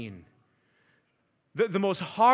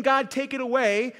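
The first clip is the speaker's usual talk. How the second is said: "God, take it away" pitched higher and louder; raised plea; 3 semitones higher, 4 dB louder than usual. Shown as a demonstration. Preacher quoting a plea to God, raised. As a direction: call "God, take it away" out with some force. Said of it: "go beyond just asking God".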